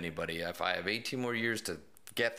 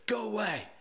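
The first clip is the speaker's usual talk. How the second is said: mock kid; 13 semitones higher than usual. Kid yelling through door.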